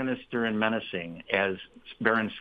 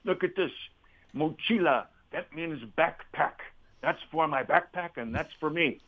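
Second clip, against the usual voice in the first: higher-pitched imitation of an Argentine accent; Spanish-flavored Argentine English; 5 semitones higher than usual. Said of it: "in his Argentinian voice".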